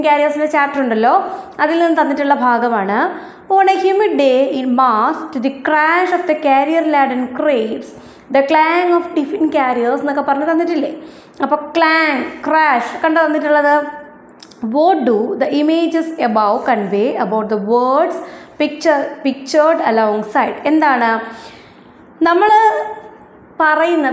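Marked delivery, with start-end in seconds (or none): 3.6-10.0 slow, careful textbook reading; reading aloud. Acted. Teacher reading the excerpt to her ninth-graders, slow and careful. 14.7-20.6 reading aloud. Acted. Teacher reads textbook question aloud.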